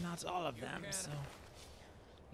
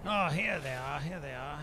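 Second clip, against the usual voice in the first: surprised; 6 dB louder than usual. Real, not acted. Enemies suddenly appear in game.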